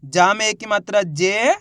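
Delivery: drawn-out syllable by syllable reading; teacher spells out the first letter slowly; slow sounding out. Shown as a demonstration. Teacher shows how to read a word, slowly. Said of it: "देखो किस तरीके से".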